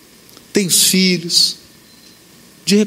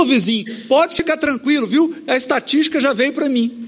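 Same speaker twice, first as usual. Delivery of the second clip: joking; 4 semitones higher than usual. Retold or imitated. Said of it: "Então ela brincando".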